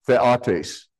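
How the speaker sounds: theotes begun with a short "theh". Shown as a demonstration. Preacher correcting his mispronounced top word, short-E theotes. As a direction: say theotes as THEH-ah-tace, short first vowel. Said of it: "the, with a short E".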